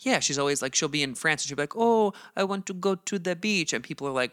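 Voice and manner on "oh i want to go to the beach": high, airy mock French accent on an English line; fake French accent. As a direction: put on a pretentious French accent while speaking English. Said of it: "adding a little slight accent".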